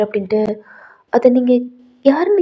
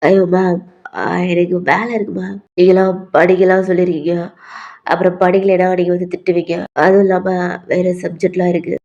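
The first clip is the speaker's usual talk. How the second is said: lightly voiced protesting student; 4 semitones lower than usual. V making study excuses to ma'am, low protesting voice. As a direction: lower boy's voice, reluctant. Boy protesting to his teacher.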